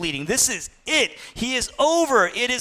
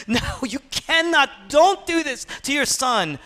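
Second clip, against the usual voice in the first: high, urgent acted plea; impassioned protest without real tears; weeping intensity; 4 semitones higher than usual. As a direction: plead urgently, voice pitched up. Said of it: "he's weeping with emotional intensity".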